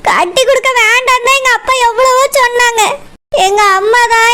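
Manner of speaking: tearful explanation; crying. Acted. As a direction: explain through tears. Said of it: "அழுது scene போட்டு நடிக்கிறியோ". (அழுகையுடன் விளக்குதல்)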